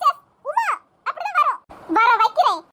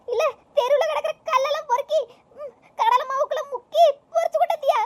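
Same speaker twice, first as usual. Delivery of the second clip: put-on old mother scolding in pain, lower voice; 3 semitones lower than usual. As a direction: tell off your daughter, stammering from the broken tooth. Mother scolds after breaking tooth. (பல் உடைந்த வயதான அம்மாவின் திட்டு)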